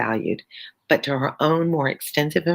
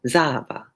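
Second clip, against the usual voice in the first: Zahava with the first syllable stressed, falling away. Shown as a demonstration. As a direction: hit ZA in Zahava, then drop. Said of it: "so many places I hit the accent".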